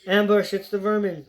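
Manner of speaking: a corporal shouting out an ambush; yelled warning. Acted. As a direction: yell a warning to the troop.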